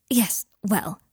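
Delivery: hesitant, faintly uneasy; slightly nervous. A narrator's reading. Hermione hedging after Harry's outburst, slightly nervous. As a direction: hedge with a touch of nerves. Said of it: "said Hermione, slightly nervously".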